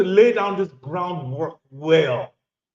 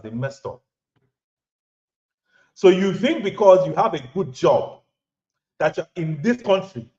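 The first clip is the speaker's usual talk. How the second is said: put-on lightly Nigerian-accented preaching to the men watching. Host switches to Nigerian accent to lecture viewers. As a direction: lean into a Nigerian accent, still close to your own voice. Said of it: "We'll talk, we'll talk Nigerian".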